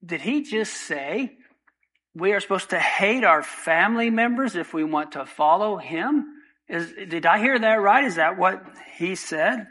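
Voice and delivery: mock shocked disbelief; a hint of a stunned listener; shocked crowd. Imagining the crowd, lightly shocked. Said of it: "how that statement must have shocked the crowd".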